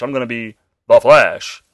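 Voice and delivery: firm up into a grown hero's announcement; manly voice. Retold or imitated. Wally West declaring he will be the Flash, manly voice. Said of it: "you give him a manly voice".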